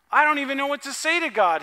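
loud, fast, tumbling words; Paul loudly overwhelmed with thanks; overwhelmed joy. Retold or imitated. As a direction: rush it out, lost for words. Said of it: "he says".

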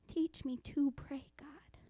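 slow prayer, sinking into soft whispers; heartfelt prayer. Acted. Preacher models prayer to God, hushed and slow. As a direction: plead with God, dropping to a whisper.

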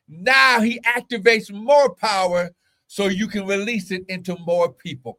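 forceful, punched sermon phrases; emphatic preaching. Real, not acted. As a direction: press each promise on the congregation.

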